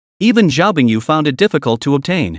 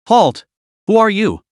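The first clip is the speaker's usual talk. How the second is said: barked; 6 semitones higher than usual. A narrator's reading. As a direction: bark it out like a guard. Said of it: "barked at Lu Jianghe".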